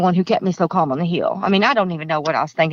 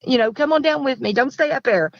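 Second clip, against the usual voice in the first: frightened plea; 5 semitones higher than usual. Retold or imitated. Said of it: "I go".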